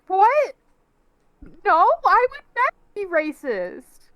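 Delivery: hurt disbelief. Acted. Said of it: "She's like".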